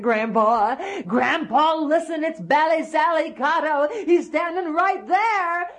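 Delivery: put-on little boy calling. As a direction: plead like a small boy. Boy repeats call.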